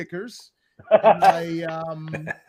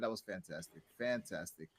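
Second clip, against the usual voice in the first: much lower and softer, almost under his breath; hushed deep murmur; 13 semitones lower, 16 dB quieter than usual. Real, not acted. Wrapping up the show, a low hushed murmur. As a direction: drop way down and murmur it. Host signing off.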